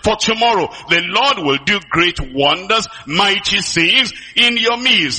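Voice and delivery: drawn-out, slow proclamation; slow proclaimed declaration. Retold or imitated. Pastor giving the congregation words to declare, slow and proclaiming. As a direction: stretch each phrase like a decree. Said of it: "And if you say".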